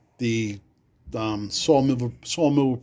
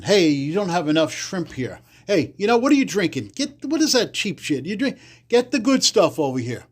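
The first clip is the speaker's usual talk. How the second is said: pushy hoodlum voice; 4 semitones higher than usual. Retold or imitated. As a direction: boss the waiter around like a wiseguy. Hoodlums ordering loudly at table.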